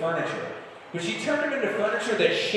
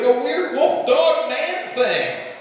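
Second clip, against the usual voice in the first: slow, high, frightened dad; 9 semitones higher, 3 dB louder, much slower than usual. Retold or imitated. Belle's dad explaining.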